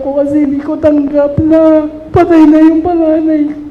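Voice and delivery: high, loud, sobbing through the words; grieving mother crying out to God, sobbing; real crying. Real, not acted. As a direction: weep openly while telling it. Mother weeping over dead son.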